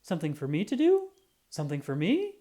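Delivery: quick eager rising questions; bubbling with hope; eager little truck. Acted. Little Yellow hopes for a job, fast and eager. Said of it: "Little Yellow perked up".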